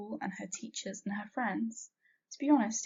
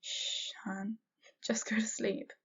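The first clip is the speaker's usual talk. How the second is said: soothing hush; slower than usual. A narrator's reading. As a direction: hush them gently. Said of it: "she chuckled".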